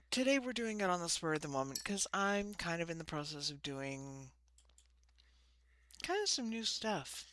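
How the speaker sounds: slight lisp from loose dentures; lisping on the s sounds. Real, not acted. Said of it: "excuse the lisp because my dentures weren't in correctly".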